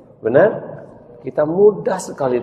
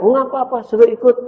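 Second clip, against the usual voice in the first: much higher lady; high mother voice; 14 semitones higher, 5 dB louder, faster than usual. Acted. Mother tells her son the boy may ride, high. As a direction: kindly say let him come.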